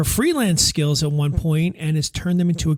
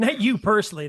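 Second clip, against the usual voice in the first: laughing; 4 semitones higher than usual. Real, not acted. Teasing guest, repeats the tease.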